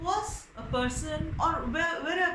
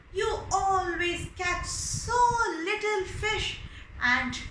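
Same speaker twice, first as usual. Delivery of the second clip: high, pleading wife's complaint; nagging wife; 5 semitones higher than usual. Acted. The wife scolding her fisherman husband, high and pleading. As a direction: whine at your husband about money. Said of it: "his wife would never forget to remind him".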